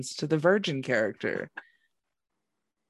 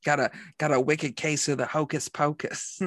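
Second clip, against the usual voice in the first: put-on half-hearted New England accent; bad New England accent. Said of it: "we're bad at accents".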